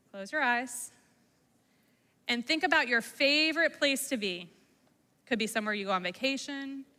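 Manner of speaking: calm, soothing prompts with long pauses; guided visualization. Acted. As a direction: guide children gently into their favorite place. Leads a calming visualization.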